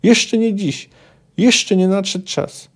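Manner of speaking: high, emphatic snarled refusal; forceful, drawn-out angry retort; angry growl. A narrator's reading. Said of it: "zawarczał".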